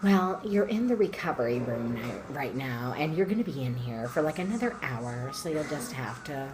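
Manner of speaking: soft, flat dismissal; curt nurse brush-off. Retold or imitated. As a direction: shrug the patient off coldly. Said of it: "she was like".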